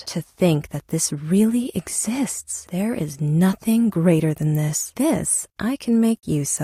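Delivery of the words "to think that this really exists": slow, awestruck whisper. Acted. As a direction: barely breathe the words. Awed at a legend.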